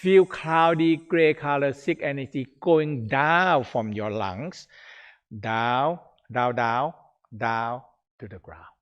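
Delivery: lightly voiced guided meditation; guided visualization. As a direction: lead them through the breath slowly.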